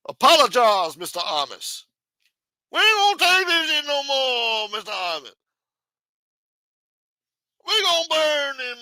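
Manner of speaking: put-on high, loud 1960s African-American accent. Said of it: "nineteen sixties African-American accent".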